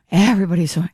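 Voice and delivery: lightly mocked, over-accentuated caring; overly caring voice. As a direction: imitate a speaker overdoing the concern. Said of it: "overly accentuated, caring voice".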